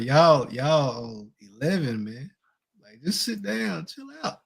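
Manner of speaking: put-on begging the kids to calm down; exasperated parent. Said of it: "I was telling the kids".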